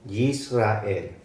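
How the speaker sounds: Yisrael built up slowly syllable by syllable; careful pronunciation. Shown as a demonstration. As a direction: say Yisrael slowly, every sound clear. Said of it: "Y esta es la E". (Yisrael pronunciado despacio y claro)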